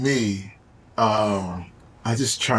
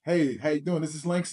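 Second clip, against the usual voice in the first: different phone voice; 2 semitones higher, 5 dB quieter than usual. Shown as a demonstration. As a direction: answer a client call in a phone voice. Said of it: "That's a different voice".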